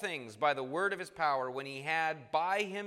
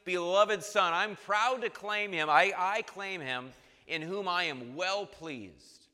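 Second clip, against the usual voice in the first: slow, louder, raised proclamation; voice of God the Father; 3 semitones higher, 5 dB louder than usual. Retold or imitated. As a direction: proclaim it slowly as the heavenly Father. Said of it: "the heavenly Father saying".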